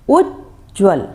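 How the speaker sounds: उज्ज्वल said slowly, the half ज sound clear; careful demo. Shown as a demonstration. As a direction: spell out उज्ज्वल slowly, syllable by syllable. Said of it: "ध्वनि कैसी निकलती है?".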